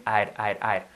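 "I'd" with the final D sounded; audible final D. Shown as a demonstration. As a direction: repeat "I'd" low, landing on the D each time. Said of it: "si queremos que suene la D".

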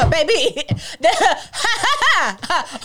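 high breathy ha ha; laughing fit. Real, not acted. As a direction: dissolve into laughter.

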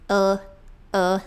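"O" as a short dark l; isolated dark L. Shown as a demonstration. Teacher showing the English L position, tongue up. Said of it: "Essa é a posição do L".

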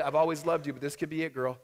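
husband's mock last words to his wife; mock dramatic farewell. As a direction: play it like the end is near, jokingly.

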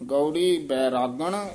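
ਗੌੜੀ ਬੈਰਾਗਣ slowly, then a stop; pause after ਬੈਰਾਗਣ. Shown as a demonstration. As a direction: halt after ਬੈਰਾਗਣ before ਮਹੱਲਾ. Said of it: "ਇੱਥੇ ਠਮਕ ਲਾ ਦੇਣੀ ਹੈ". (ਬੈਰਾਗਣ ਤੇ ਠਮਕ)

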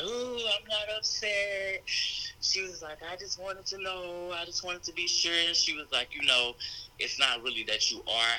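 a hint of a gentle mother; mom's voice. Mother voiced in coming-out story.

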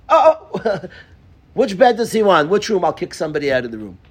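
mock eager host; eager welcome. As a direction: jump to make room. Sudden eager welcome of orphan.

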